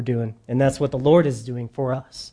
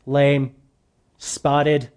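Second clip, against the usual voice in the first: mock temple vendor. Temple seller steering buyers to his pre-approved animals, hammed-up sales pitch. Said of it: "And they said".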